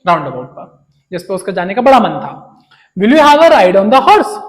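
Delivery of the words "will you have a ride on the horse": gentle offer. Retold or imitated. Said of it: "gently asked".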